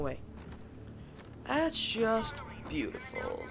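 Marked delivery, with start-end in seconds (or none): 1.5-3.4 sarcastic. Real, not acted. Went the wrong way.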